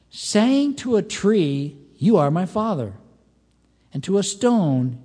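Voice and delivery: deliberate, declamatory verse reading; scripture reading. Acted. Preacher reading the prophet's charge against Judah, declamatory scripture reading. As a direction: proclaim the verses phrase by phrase. Reads scripture aloud to congregation.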